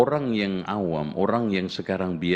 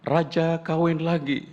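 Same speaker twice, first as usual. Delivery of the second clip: parrot voice; 8 semitones higher than usual. Retold or imitated. Parrot repeats the secret.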